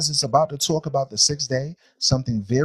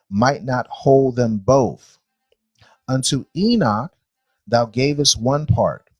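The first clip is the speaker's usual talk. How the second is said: scripture reading. Acted. Teacher reading creation verses to a class, measured scripture reading. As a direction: read it out solemnly, phrase by phrase.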